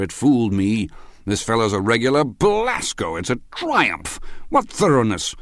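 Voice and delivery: high, swooping, exultant tipsy raving; drunken triumph. A narrator's reading. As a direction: gush with loud, wondering admiration. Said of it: "he cried triumphantly".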